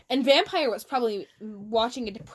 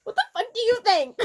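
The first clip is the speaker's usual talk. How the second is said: angrily; 9 semitones higher than usual. Acted. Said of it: "I asked angrily".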